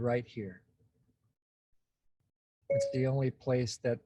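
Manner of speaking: calm, unhurried guidance with long pauses; guided meditation. Real, not acted. Host guides group into present experience, calm meditation voice. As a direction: lead them gently into noticing, leaving space between phrases. Leads a self-connection exercise.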